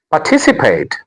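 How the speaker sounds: "participate" with TIS made prominent; stress on second syllable. Shown as a demonstration. Teacher introducing the next word, "participate" stressed par-TIS-ipate. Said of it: "The stress is on".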